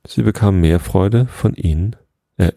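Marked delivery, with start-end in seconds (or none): 2.4-2.5 measured, even storybook reading; story narration. A narrator's reading. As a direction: read a children's tale aloud, unhurried.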